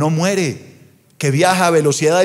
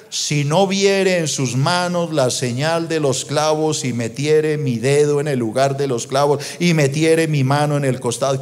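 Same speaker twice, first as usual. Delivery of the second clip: low, measured recitation; solemn scripture reading; 3 semitones lower than usual. Acted. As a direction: recite the verse in a lowered voice. Reads scripture aloud.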